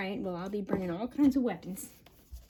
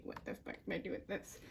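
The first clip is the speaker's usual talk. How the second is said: whispered thought; 10 dB quieter than usual. Retold or imitated. Inner thought during flashback.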